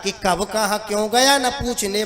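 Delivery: rhythmic recited comic refrain; verse refrain. Acted. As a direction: deliver it as a lilting stage couplet. (लयदार हास्य कविता पाठ)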